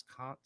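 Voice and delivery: "cunt" as British "can't", with a long open ah; British pronunciation. Retold or imitated. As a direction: imitate the British vowel in "cunt", meaning can't. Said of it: "she says".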